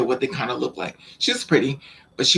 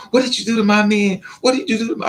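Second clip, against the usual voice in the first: higher-pitched imitation of a jealous girlfriend; mock pissed off; 5 semitones higher, faster than usual. Imitating a girlfriend confronting the storyteller over her man, mock angry. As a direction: confront them as if ready to fight. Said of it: "She's pissed off, ready to fight me".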